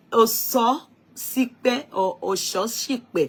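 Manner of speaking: "Ososipe" slowly twice, first with an o sound, then with a sh sound; two pronunciations. Shown as a demonstration. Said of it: "Bí mo ṣe pronounce orúkọ yín".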